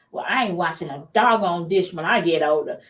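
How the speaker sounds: mock defiant kid, laughing through it; a laughing, defiant vow never to wash dishes; defiant young self. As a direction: declare it like a stubborn teen. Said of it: "my trigger growing up".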